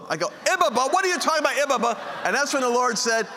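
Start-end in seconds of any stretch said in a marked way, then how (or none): 0.5-2.0 mock exasperation. Husband arguing with his wife over a misheard word, exasperated. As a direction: throw the odd word back in comic disbelief.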